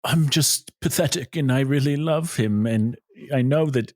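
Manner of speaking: Kate Winslet. Acted. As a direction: plead haltingly, as a hammed-up lovesick heroine. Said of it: "you be Kate Winslet".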